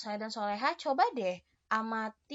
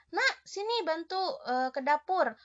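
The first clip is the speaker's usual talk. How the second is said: mock mother calling from the kitchen, pitched up; 6 semitones higher, 3 dB louder than usual. Mother calling child to help in the kitchen, a light imitation. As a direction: call the child like a mother would. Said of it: "ibu anak soleh dan soleha, eh, memanggil".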